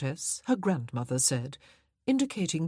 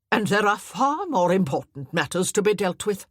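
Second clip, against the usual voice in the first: haughty dowager; 3 semitones higher, 7 dB louder than usual. Acted. Dowager cuts in.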